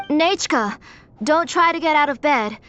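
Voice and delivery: put-on calling out to a child in the next room. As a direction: raise the voice a little so she hears through the wall. Calls to daughter in another room.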